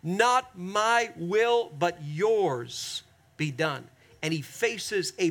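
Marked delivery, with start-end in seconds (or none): 0.0-3.9 slow, yielding surrender; submissive prayer. Retold or imitated. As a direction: let go and give it up to God. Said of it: "says to God in submission".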